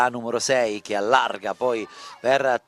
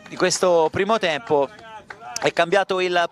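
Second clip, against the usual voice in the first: excited commentary; 6 semitones higher than usual. Real, not acted. Still excited after goal.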